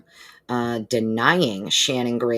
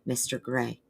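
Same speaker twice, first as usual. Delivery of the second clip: nicer, polite warning; 2 semitones higher, slower than usual. Retold or imitated. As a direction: warn him gently, word by word. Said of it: "they said it nicer than I would".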